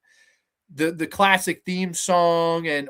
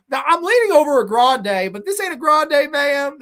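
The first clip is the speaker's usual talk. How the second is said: higher, louder huffy complaint; mock indignant customer; 9 semitones higher, 6 dB louder than usual. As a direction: ham up the affronted coffee snob. Re-enacting Will at the window.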